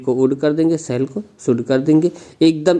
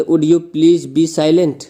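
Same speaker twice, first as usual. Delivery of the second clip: polite request; 2 semitones higher, much slower than usual. Shown as a demonstration. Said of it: "इसी तरह कोई बोल दे".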